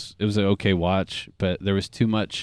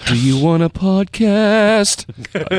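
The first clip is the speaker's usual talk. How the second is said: laughing call; 8 semitones higher, 4 dB louder, much slower than usual. Pretend. Calling to absent friend.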